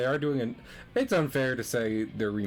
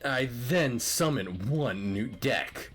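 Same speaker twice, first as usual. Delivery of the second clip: dramatic card announcement; 3 semitones higher, much slower than usual. Acted. Card-game announcement in character.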